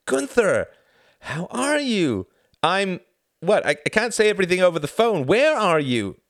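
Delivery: high, loud, excited phone voice; shouting. A narrator's reading. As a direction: shout down a bad line to an old friend. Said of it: "You don't have to shout".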